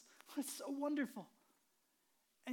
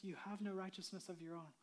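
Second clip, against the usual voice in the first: soft offer from God; 4 semitones lower, 9 dB quieter than usual. Acted. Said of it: "where God says".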